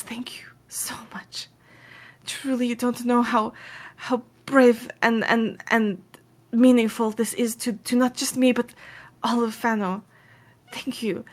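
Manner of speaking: halting, heartfelt thanks; overcome with gratitude. Acted. Tearful woman clasping a helper's hands, halting and grateful. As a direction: start hushed, then stumble earnestly through it. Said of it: "overcome with the gratefulness".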